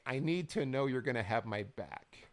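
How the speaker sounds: mock slow, earnest plea; measured imitation of slow trash talk. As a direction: draw it out a little, imitating a promo. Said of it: "slow talking back and forth".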